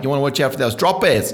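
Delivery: hammed-up Australian accent, rising at the end. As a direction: try out a broad Australian accent. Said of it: "Is that a good accent?".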